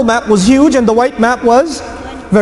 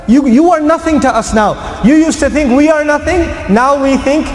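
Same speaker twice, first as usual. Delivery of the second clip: higher, raised voice of contempt; scornful rebuke; 6 semitones higher than usual. Acted. Muslims telling the envoy he is nothing, scornful shout. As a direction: throw the insult back at them.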